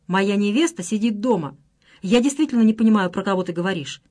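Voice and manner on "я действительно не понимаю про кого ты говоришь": ordinary delivery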